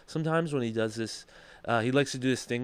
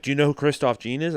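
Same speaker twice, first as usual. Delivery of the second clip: a touch of cocky challenge on "Do you know who Christoph Jean is?"; lightly needling, as if testing him; mild smart-ass jab back at Tony; smart-ass question. Shown as a demonstration. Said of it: "I said just like that".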